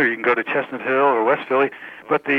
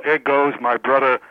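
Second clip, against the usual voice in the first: put-on slow South Philadelphia accent, listing the brothers; South Philadelphian; slower than usual. Caller imitates a local listing family members, slow South Philadelphia accent. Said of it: "if you were asked a South Philadelphian".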